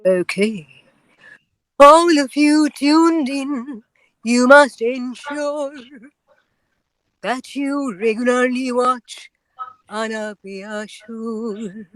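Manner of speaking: slow, stately Bengali auntie voice. Acted. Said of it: "me or Bengali auntie".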